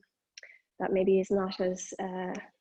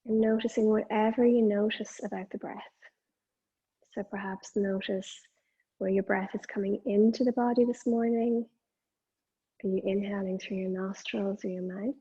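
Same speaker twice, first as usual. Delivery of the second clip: measured meditation guidance, pausing between phrases; guided meditation. Acted. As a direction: guide attention to the breath, leaving long silences.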